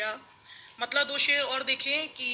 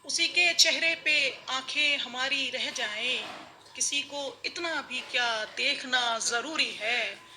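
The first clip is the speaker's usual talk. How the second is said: measured mushaira verse delivery; ghazal recitation. Acted. (मुशायरे में ग़ज़ल पढ़ने का अंदाज़)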